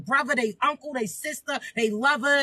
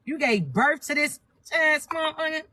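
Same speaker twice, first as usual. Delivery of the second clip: mock exasperated rant. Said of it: "cuss they ass out too. Like".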